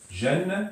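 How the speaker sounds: "Jan" sung out high with a clear n ending; tanwin demo. Shown as a demonstration. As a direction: lift and ring out "Jan" with the n. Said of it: "c'est juste pour montrer que la prononciation".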